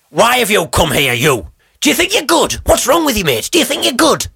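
high, mocking jeers of a cranky old woman; heckling old woman. Old woman heckling the singer, high mocking jeers. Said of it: "starts heckling me to my left, going".

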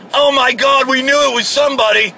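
high-pitched, mock excited outburst; excited crowd. Imitating bar crowd reacting to a star, high and excited. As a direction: blurt it like onlookers vindicated.

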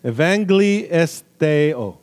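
slow, syllable-by-syllable Greek in a put-on Apache accent. Shown as a demonstration. Preacher retrying a Greek word, slow mock Apache accent. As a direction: sound it out slowly, imitating an Apache accent. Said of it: "I said it with an Apache accent".

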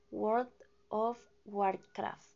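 "World of Warcraft" spelled out very slowly, word by word. Shown as a demonstration. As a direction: drag out "World of Warcraft" carefully, syllable by syllable. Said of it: "Lo digo despacio".

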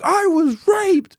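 high, slow, hammed-up wail; drawn-out, high-pitched mock distress; mock anguished confession. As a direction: play a distraught man's stage confession. Imagined man's anguished stage confession.

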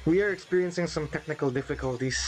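high mock announcer. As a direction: play the airline announcer. Mock announcement during dropout.

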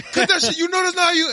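loud, high scolding shout; retold cursing out. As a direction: yell it like calling out a faker. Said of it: "cursing Ivan out".

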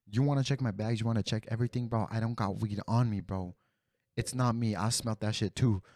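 worked-up, challenging self-defence; defiant protest. Retold or imitated. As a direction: argue your innocence insistently. Retold challenge to being searched.

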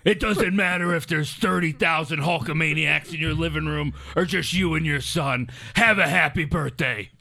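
a hint of a wrestling promo voice; Hogan. Birthday wish for Big Brian, mild Hogan promo. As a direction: preach it like a hyped wrestler cutting a promo. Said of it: "you gotta try to Hogan".

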